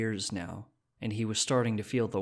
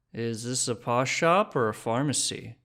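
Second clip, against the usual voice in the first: put-on drunk man; 2 semitones higher, 4 dB louder than usual. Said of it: "stood swaying in the open shop door".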